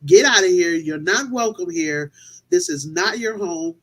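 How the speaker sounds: slow down and set a boundary with each phrase; firm voice. Retold or imitated. Team member coaching a frightened lady to banish a spirit, firm voice. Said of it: "with a firm voice".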